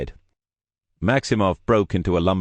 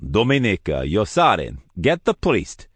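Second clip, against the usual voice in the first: impatient orders; 3 semitones higher than usual. Acted. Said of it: "clicked his fingers impatiently".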